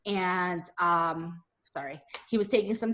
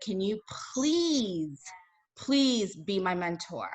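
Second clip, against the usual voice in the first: begging; slower than usual. Retold or imitated. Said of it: "So I begged him".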